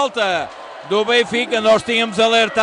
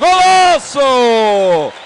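very slow, long-held loud cry; explosive goal commentary; 5 dB louder, much slower than usual. Real, not acted. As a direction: stretch Golaço out very long and loud. Golaço dragged very long.

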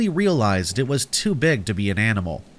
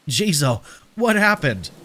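higher, mildly shocked exclamation; shocked question; 4 semitones higher than usual. Acted. Narrator questions a bleeding stranger, in startled alarm. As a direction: ask in startled alarm, pitched up.

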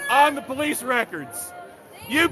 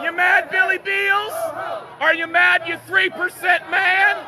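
taunting shout; 3 semitones higher than usual. Real, not acted. Taunting a man at a protest.

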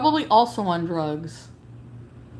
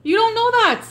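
furious shout; 12 semitones higher than usual. Real, not acted. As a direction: scream the question at them in fury. Furious at chat claim.

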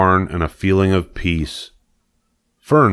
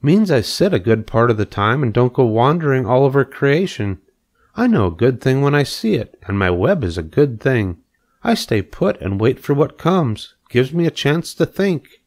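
a lightly raised, calm spider voice; spider Charlotte; 6 semitones higher than usual. Acted. Spider to pig, explaining her patient life, lightly voiced.

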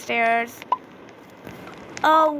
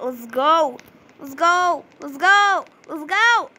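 building excitement; 2 semitones higher, 4 dB louder than usual. Real, not acted. After finding the key card, building cheer. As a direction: rev up, cheering louder each time.

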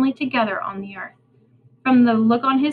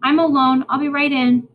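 calling back; 4 semitones higher, 4 dB louder than usual. Acted. Calling to father.

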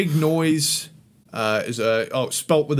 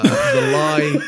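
much higher, dramatic title call; sing-song announcement; 4 dB louder than usual. Acted. Introducing the next track to his co-host, much higher and louder.

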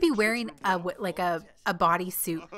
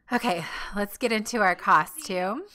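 ordinary talk

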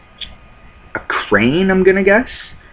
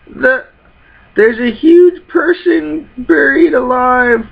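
much higher, hammed-up fright then curiosity; startled character; 8 semitones higher than usual. Frightened girl finds a buried man, mock shriek.

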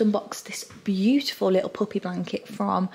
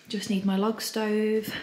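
usual speaking voice

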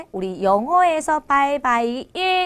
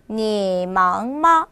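你忙吗 stretched out, 你 low, 忙 rising; careful slow-motion drill of 你忙吗; slow training model; 3 semitones lower, much slower than usual. Shown as a demonstration. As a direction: slowly draw out each tone of 你忙吗. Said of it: "이 발음이 훈련이 되지 않으면".

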